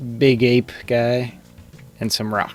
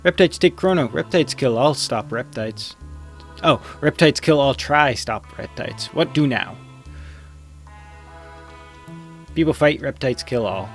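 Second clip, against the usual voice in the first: caveman voice; 2 semitones higher than usual. Acted. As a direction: grunt it out like a cave villager. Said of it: "I can't do the caveman voice".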